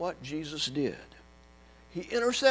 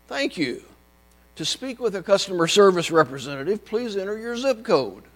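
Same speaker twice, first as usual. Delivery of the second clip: phone menu voice; 3 semitones higher, 7 dB louder than usual. Retold or imitated. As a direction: drone through the menu options. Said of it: "It went something like this".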